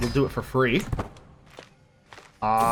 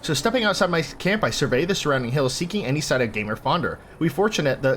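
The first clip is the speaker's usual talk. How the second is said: game text read as a tale; story narration. A narrator's reading. Player reading camp story to viewers, story narration.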